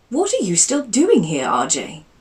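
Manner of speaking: a startled aunt asking; surprised aunt. Acted.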